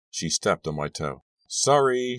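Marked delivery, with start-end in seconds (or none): 1.5-2.2 high, drawn-out call; calling back. A narrator's reading. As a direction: toss it back as a called apology. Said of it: "she called back".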